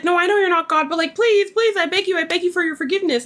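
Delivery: mock pleading. Retold plea begging forgiveness.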